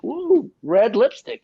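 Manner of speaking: slow, high, drawn-out ooh of delight; playful tease. Retold or imitated. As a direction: savour it like juicy gossip. Teasing the couple at appointment.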